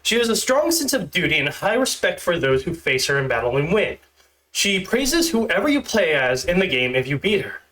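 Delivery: stiff, awkward script reading; stilted robot reading. Shown as a demonstration. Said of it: "if it sounds like I'm a stilted robot".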